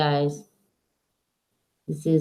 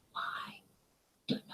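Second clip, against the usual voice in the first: whispered aside; 23 dB quieter than usual. Real, not acted. Aside about dog circling.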